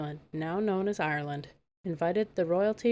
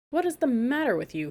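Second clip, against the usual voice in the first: higher, louder troll warning; warned; 7 semitones higher, 4 dB louder than usual. A narrator's reading. Troll woken by Megan crying, grumpy warning. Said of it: "he warned".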